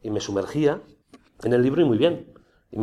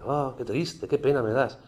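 pitying inner voice. Retold or imitated. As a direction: coax him gently, as if feeling sorry for him. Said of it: "esa voz ... empezó como siempre".

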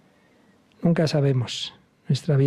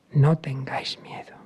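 tender whisper. Acted. Jesus reassures.

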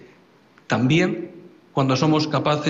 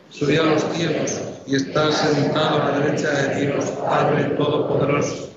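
prayer recitation. Acted.

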